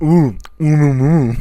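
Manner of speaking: high, loud mock-wailing oohs; high put-on "ooh ooh". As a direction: ooh loudly like a mocked crybaby. Mocking a rapper's whiny reaction.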